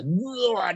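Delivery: high, drawn-out mock retch; imitated retching. Telling how the prayed-for person threw up, imitated retching. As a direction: imitate a big "wah" of vomiting. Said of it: "dia muntah".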